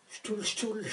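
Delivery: "Ch'toul" said as shtool, the Picard way instead of Cthulhu; "Ch'toul" with a soft sh and a single syllable, Picard style; Picard pronunciation. Shown as a demonstration. Host mangling the monster's name the Picard way, softly. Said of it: "c'est du picard, en fait".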